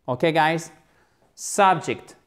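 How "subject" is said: "Subject" with the E said as a short i. Shown as a demonstration. English teacher modelling the word, "Subject" with a short i for E. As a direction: say the second vowel of "Subject" as a short i. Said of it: "le E se prononce comme un I court".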